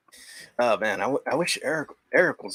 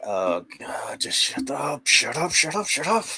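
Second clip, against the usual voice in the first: exasperated shouting; 5 semitones higher than usual. Retold or imitated. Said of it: "everything is like".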